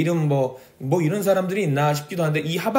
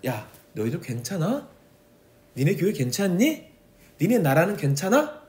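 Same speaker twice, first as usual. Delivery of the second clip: mild God's voice; 3 semitones higher than usual. Retold or imitated. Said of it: "우리한테 물어보고 있으신".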